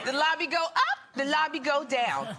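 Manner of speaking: put-on a light, high child's singsong with a laugh; childish singsong. Son chanting about the elevator, mock childish singsong. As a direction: mimic a carefree kid chanting. Mom voices her son.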